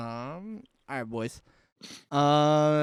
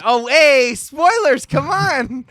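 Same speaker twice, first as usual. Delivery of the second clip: loud laughing protest; 8 semitones higher, 9 dB louder, much slower than usual. Real, not acted.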